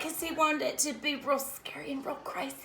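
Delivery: breathy whisper; whispered aside. Real, not acted. Mother whispering to her cousin about her son's made-up story, hushed. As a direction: whisper the excuse.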